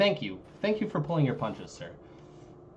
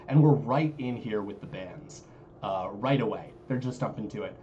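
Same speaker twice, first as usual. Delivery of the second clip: through a tube. Real, not acted. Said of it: "you sound like you're talking through a tube".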